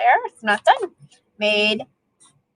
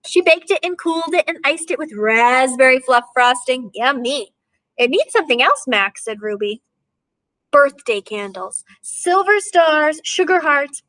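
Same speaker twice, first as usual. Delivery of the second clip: lively storybook reading to a class; reading to children. A narrator's reading. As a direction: read it like a picture book for kids. Teacher reads picture book aloud.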